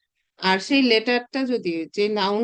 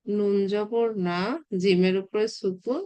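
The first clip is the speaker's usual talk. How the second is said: teacher spells each mark slowly for students; slow spelling out; 3 semitones lower, slower than usual. Shown as a demonstration. Teacher spelling the expected reading slowly for students. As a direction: slowly spell the vowel marks. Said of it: "এইভাবে হওয়ার কথা".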